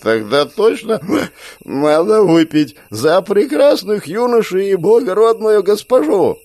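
put-on high, loud, slow drunken toast; belligerent drunk. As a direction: raise a rowdy drunken toast.

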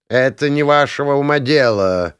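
lofty, melodious elven put-down; melodious rebuff. A narrator's reading. Elf cutting off the meddling mages, melodiously. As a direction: cut them off in a lilting voice. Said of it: "мелодично отрезал эльф".

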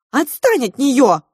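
loud, high shout. Acted. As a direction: yell at him to back off. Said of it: "крикнула Маринка".

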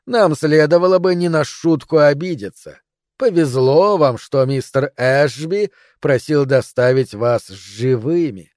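slow, lightly hissed snake voice; slow hypnotic serpent hiss. Acted. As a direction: drawl it out like a menacing serpent. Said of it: "прошипела змея".

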